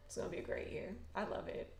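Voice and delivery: breathy whisper of the same line. Real, not acted. Fan whispering her hopes for the year, hushed. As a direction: whisper it to yourself, half in awe.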